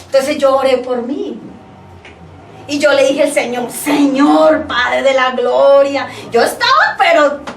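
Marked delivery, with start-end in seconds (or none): 3.7-6.1 drawn-out, commanding call to God; anointed, authoritative prayer. Retold or imitated. Woman retells praying to be chosen leader, full of authority. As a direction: pray it out with power and authority. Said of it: "Con unción y con poder y con, con autoridad en mi boca".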